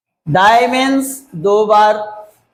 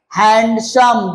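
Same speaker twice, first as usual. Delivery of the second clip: हैंडसम slowly parted, "hand", then "sam"; two-part breakdown; much slower than usual. Shown as a demonstration. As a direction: say हैंडसम as two distinct beats. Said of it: "दो बार में". (हैंडसम को दो हिस्सों में धीरे से बोलना)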